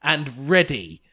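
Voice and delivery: showbiz host introducing the guests, some laughs; host introducing Paul and Eli, mock grand; announcer intro. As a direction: present each man like a game show host.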